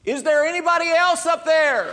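high, loud desperate shout up, with a laugh; high panicked call. Acted. Man refusing God's advice, shouting for anyone else. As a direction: cry out for someone else. Punchline, man calls up again.

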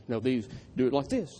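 mildly mocking a know-it-all grad student; a light hint of talking down to the class; condescending. Grad student lightly mimicked lecturing students, condescending. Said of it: "a condescending tone".

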